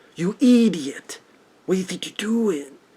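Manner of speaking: high-pitched cartoon dog voice. Giving an example of a Peter Lorre-style voice: Ren from Ren and Stimpy voice. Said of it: "Ren from Ren and Stimpy".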